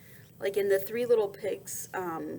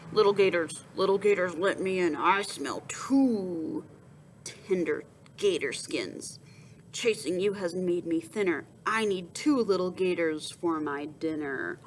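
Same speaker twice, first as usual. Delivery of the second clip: big bad boar; 2 semitones lower than usual. Boar voice at the door.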